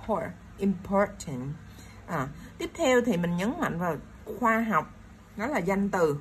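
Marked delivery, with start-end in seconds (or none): 0.1-1.5 "por" alone, then important, slowly; stress on POR. Shown as a demonstration. Teacher showing second-syllable stress in important, stressing POR. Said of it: "mình sẽ nhấn vào chữ".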